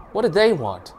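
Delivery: nervous. A narrator's reading. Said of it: "the driver asks".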